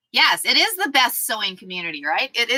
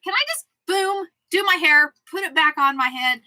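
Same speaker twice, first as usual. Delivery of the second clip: higher-pitched mock plea; playful, pitched-up self-quote; acted-out wish; 7 semitones higher than usual. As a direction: act out a wishful question. Acts out her own wish.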